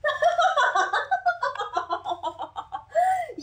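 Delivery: high sinister cackle; evil cackle. Acted. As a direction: cackle like a villain. Villain laugh.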